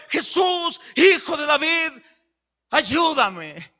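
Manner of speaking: llamado fuerte y más agudo; grito pidiendo ayuda. Retold or imitated. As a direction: grita para que Jesús se detenga. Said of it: "alguien le gritaba". (ciego llamando a Jesús desde el camino, a gritos)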